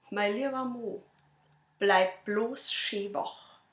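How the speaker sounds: measured verse delivery with long pauses; poem recital. Acted. Reciting own poem to an audience, measured poem recital. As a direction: recite the rhymes line by line, lightly dramatised.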